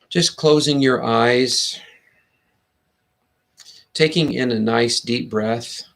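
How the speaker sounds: slow, unhurried meditation guidance; guided meditation. Acted. Host guiding listeners to close their eyes, slow meditation voice. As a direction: ease listeners in slowly, with long pauses between phrases.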